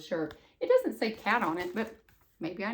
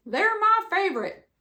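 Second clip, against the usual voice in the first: grumpy toad; 9 semitones higher, 6 dB louder than usual. Acted. Grumpy Toad voiced in story.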